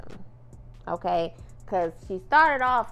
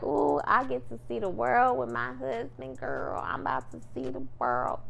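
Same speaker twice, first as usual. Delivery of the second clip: lightly acted excitement, starting higher and settling down; mildly excited; 3 semitones higher than usual. Bride-to-be gushing about seeing the world with her husband, mildly excited. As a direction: imitate a bride's dreamy excitement, drawing out the "Ooh". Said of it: "of course she's excited".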